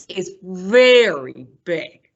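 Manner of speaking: slow, drawn-out storytime suspense; slowly, hammed up for young listeners; dramatic emphasis. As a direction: stretch it out for dramatic weight.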